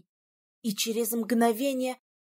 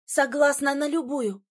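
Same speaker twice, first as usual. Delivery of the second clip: ordinary delivery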